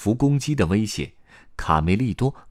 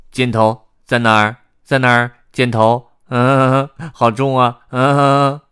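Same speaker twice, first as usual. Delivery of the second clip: louder, higher character voice straining under a heavy load; 负重吃力的贝里奥; 6 semitones higher, 9 dB louder than usual. A narrator's reading. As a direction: grunt and complain while lugging someone along. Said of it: "贝里奥边走边说". (背着重物、吃力抱怨的高亢角色声)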